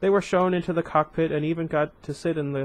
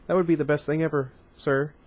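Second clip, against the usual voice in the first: quicker and a little brighter; faster retake. Shown as a demonstration. Boy answering Tarkin eagerly, faster. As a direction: rush the happy line out. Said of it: "Where was I?".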